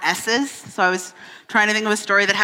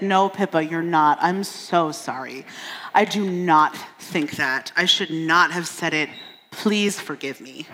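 sincere apology; 3 semitones lower than usual. Retold or imitated. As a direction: say sorry gently, meaning it. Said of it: "a genuine apology".

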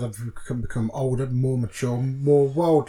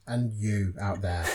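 trailing off; 6 semitones lower, 7 dB quieter, slower than usual. Real, not acted. Addressing listeners as host.

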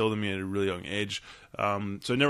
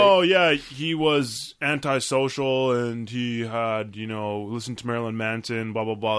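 mocking tone; 4 dB louder, slower than usual. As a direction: scoff at the easy explanation. Mocking media explanations.

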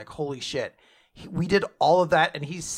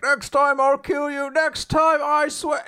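much higher and louder, a hammed-up threat; vowing villain; 11 semitones higher, 5 dB louder than usual. Lucifero promising to return and kill Asta, hammed-up high threat. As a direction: spit out a cartoon vow of revenge. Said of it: "And he's like".

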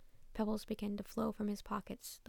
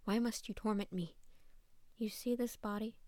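growling. Acted. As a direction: snarl it out at him. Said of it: "the cat said, growling".

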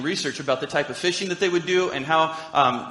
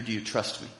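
much softer, lower tender ask; tender question; 7 semitones lower, 9 dB quieter than usual. Retold or imitated. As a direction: ask it gently, almost a hush. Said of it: "he was asking Peter".

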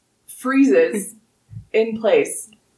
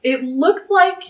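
storytelling narration. Acted. GM narrates the tree opening.

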